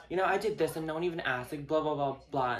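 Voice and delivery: put-on whiny rattle; mock complaining. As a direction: imitate an attention seeker fishing for pity. Mimics attention seeker's complaint.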